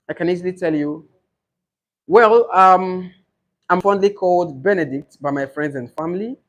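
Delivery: examiner and candidate. Shown as a demonstration. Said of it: "Then examiner will go like".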